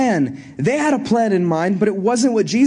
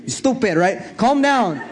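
Jesus calming Peter. Retold or imitated. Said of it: "He's like".

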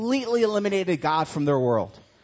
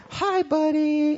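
put-on much higher, slow baby-talk greeting; talking weird to cat; 12 semitones higher, 5 dB louder, slower than usual. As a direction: coo at the cat in a silly high voice. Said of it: "and talking weird".

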